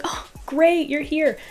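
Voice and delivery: high-pitched, breezy welcome; unworried greeting. Retold or imitated. Showering woman greeting a complete stranger, high and unworried. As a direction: imitate a woman untroubled by the intruder. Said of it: "This woman does not sound worried".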